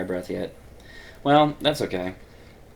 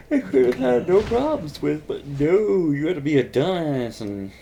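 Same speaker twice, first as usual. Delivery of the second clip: frustrated rant; 5 semitones higher, 3 dB louder than usual. Real, not acted. Scolding himself, frustrated rant.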